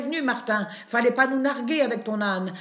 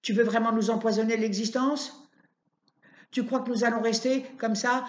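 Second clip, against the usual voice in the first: put-on shrill furious shriek from an old woman at her window; old neighbour woman screaming insults at Martin; furious yelling; 3 dB louder than usual.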